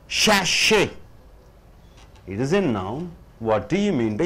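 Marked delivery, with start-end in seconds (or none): 0.1-0.9 Sachet as SASH-ay, first syllable high; stress on first syllable. Shown as a demonstration. Teacher introducing a new word, stress on first syllable. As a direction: punch SASH in Sachet, higher pitch. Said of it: "The first syllable should be stressed".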